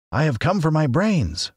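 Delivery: asks, a touch nervous; a little uneasy. A narrator's reading. Scarecrow asks Oz for brains, a little uneasy. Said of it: "remarked the Scarecrow a little uneasily".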